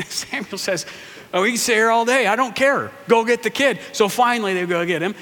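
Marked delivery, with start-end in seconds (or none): 1.3-3.8 stubborn prophet. Acted. Samuel voiced, stubborn.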